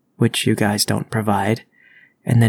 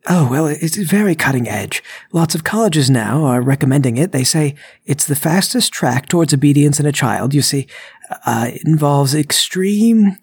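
higher, eager sales pitch; bluffing burglar; 4 semitones higher, 3 dB louder than usual. Acted. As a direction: talk up a made-up method, stretching the last word.

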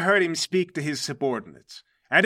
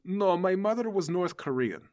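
put-on higher-pitched Russian-accented denial; 4 semitones higher than usual. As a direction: correct them in a Russian accent. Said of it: "so natively my accent is Russian".

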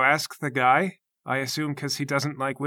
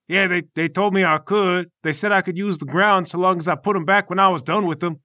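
higher, slightly louder character voice; Obliterator, easygoing fighter; 5 semitones higher, 5 dB louder than usual. Acted. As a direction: play a guileless fighter, pitched up.

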